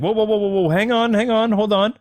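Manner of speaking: high-pitched, hurried "whoa, whoa" of a startled gangster; Penguin stopping Batman. Retold or imitated. Penguin halts Batman when they first meet, high startled gangster voice. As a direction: play the Penguin backing off fast from the Batman. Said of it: "he's just like".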